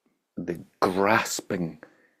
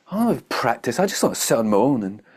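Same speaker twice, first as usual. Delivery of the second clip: ungrateful whine; 5 semitones higher than usual. Retold or imitated. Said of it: "So ungrateful".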